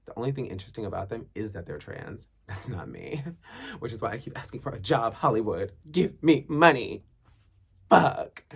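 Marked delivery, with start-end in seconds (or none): 5.9-8.4 mock plea. Begging Hollywood for work.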